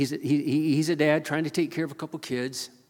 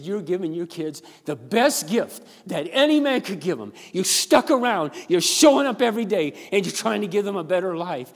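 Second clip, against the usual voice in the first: emphatic affirmation; 5 semitones higher, 7 dB louder than usual. Retold or imitated. Pastor retells affirming the father.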